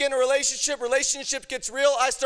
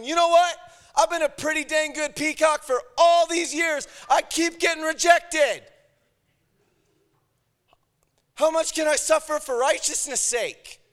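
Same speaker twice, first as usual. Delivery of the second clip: mock-outraged righteous sufferer; self-pitying rant; 4 semitones higher than usual. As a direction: wail about your bad luck.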